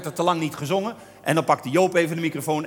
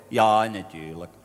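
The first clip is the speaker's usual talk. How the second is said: Leni's answer; 7 semitones lower, slower than usual. Retold or imitated. Leni's stock answer, voiced.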